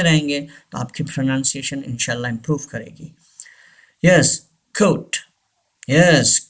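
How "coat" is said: COAT with a long "oh"; British pronunciation. Shown as a demonstration. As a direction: model "coat" as KOHT. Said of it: "लेकिन Britishers coat". (coat को "कोट" बोलें)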